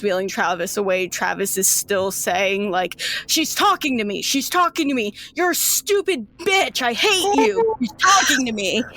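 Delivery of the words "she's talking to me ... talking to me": screaming patient. Acted. Travis wheeled away, screaming at Joy, high furious yell. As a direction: scream it at her as he's wheeled off. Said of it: "doesn't like that he's screaming".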